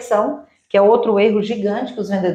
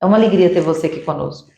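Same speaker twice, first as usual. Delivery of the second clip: welcoming greeting; 2 semitones lower than usual. Shown as a demonstration. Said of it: "Isso é acolher".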